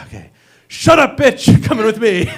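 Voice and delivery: high, loud hammed-up kidnapper; in character. Boyfriend playing a kidnapper for his girlfriend, loud and hammed-up. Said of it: "I gotta get into character".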